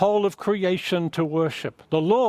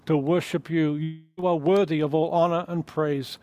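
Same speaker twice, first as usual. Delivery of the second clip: prayer. Acted. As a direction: pray gently, drawing the room in. Pastor leads closing prayer.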